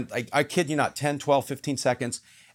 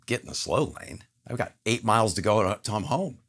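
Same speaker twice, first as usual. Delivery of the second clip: puzzled echo. Retold or imitated. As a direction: mutter it back as if it made no sense. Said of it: "I'm literally like".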